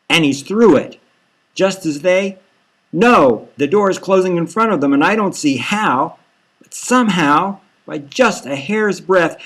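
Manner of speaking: news play-by-play. Acted. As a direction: call the chase like a breathless TV reporter. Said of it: "A news thing says".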